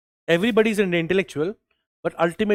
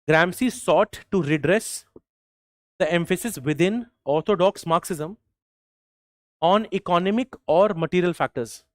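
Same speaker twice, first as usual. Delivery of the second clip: slow dictation; slower than usual. Shown as a demonstration. Repeats dictation for students.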